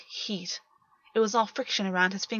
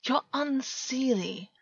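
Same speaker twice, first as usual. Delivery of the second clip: amused, strained; 5 semitones higher, much slower than usual. A narrator's reading.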